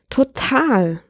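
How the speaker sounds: high, swooning sigh of a word; lovestruck sigh. A narrator's reading. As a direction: sigh it out, smitten. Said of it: "Fiona seufzte".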